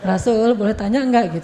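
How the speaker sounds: mildly acted clingy wife; a touch of sweet wheedling; coy. Wife asking her husband a question, mildly coy. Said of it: "Aisyah manja sama Rasul".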